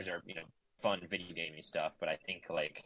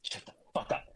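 mock whispered heckle; 2 semitones higher, 3 dB quieter than usual. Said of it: "'cause you guys are like".

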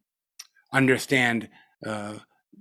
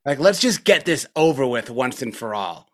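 higher, louder exasperated demand; retold anger at himself; 4 semitones higher, 3 dB louder than usual. Teacher reenacting yelling at his own mind on retreat, exasperated. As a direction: confront your own mind, fed up and pushing. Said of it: "got really angry and said to myself".

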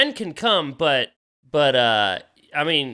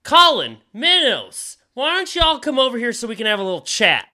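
talking sword voice; 7 semitones higher than usual. Acted. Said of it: "It's like".

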